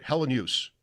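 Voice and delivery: Hellenius in three even syllables with a faint Y before the last syllable; player's own pronunciation. Shown as a demonstration. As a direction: say Hellenius flat, with no emphasis on any syllable and a little Y. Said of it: "that's how he said it".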